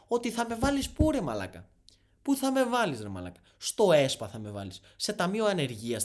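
indignant outburst. Acted. Viewer challenging an online money coach, indignant outburst. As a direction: fire off outraged rhetorical questions.

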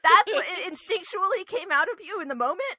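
high, loud, laughing incredulity; laughing disbelief. Real, not acted. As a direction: ask it while cracking up.

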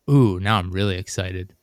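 lightly mock the clerk's oddly thrilled tone; creepy excitement. To a customer on the phone, clerk sounds creepily excited, mildly imitated. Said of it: "That's kinda creepy".

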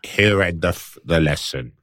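slow, lightly put-on Cockney; mock Cockney accent. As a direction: deliver it solemnly with joke Cockney. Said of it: "got a Cockney Spanish dude".

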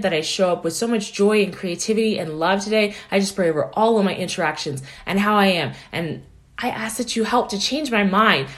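earnest prayer read, steady; spoken prayer. Shown as a demonstration. Coach modelling a morning prayer for listeners, sincere. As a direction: pray it through sincerely.

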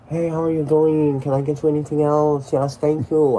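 imitating the manager. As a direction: put on the manager's phony accent. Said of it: "he'd go up to me and be like".

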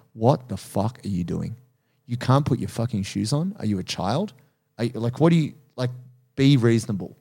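inner critic voice. Retold or imitated. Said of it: "a subconscious voice that goes".

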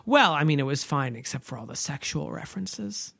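soft, prim small-town voice; prim churchgoer. Retold or imitated. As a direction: say it primly, disapproving. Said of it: "she was like".

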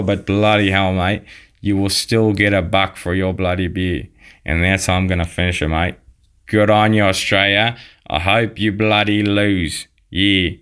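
hammed-up Aussie accent, leaning on the bloody and mate; a South African playing an Aussie bloke for laughs; Australian accent. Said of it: "fantastic impersonation of Australian accent".

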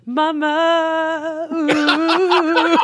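high, airy impressed coo; high mock swoon. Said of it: "And I was like".

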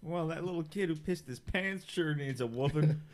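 deep menacing voice. Acted. Carmichael picks his victim.

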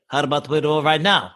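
imitated Russian fighter accent. Russian pushes for a fight right now, Russian accent. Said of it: "that is an exact accent".

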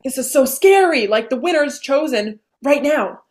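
nervous excitement, voice up; backstage, waiting for the winner, nervous; mock nervous.

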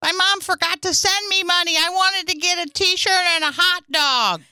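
put-on child explaining a problem to the chaperone; complaining child. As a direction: plead like a kid on a field trip. Plays child pleading with chaperone.

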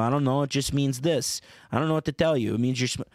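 Sopranos-style Jersey impression; New Jersey accent. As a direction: talk like a Sopranos cast member. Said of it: "He sounds a little bit like this".

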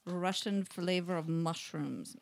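attempted Russian accent, reading aloud; Russian-accented snack blurb, measured delivery. Shown as a demonstration. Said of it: "Now say it in Russian".

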